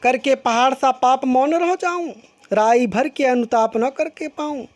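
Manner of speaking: measured recital of verse; poem recitation. Acted. Teacher reciting Kaikeyi's verse to the class, measured recital. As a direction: read the couplet like a recitation.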